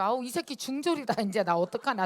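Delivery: loud, dismayed groan of worry; mock-despairing mother; panicked inner cry. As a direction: blurt out the horror of a dropout son. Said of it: "이 생각밖에 안 들어".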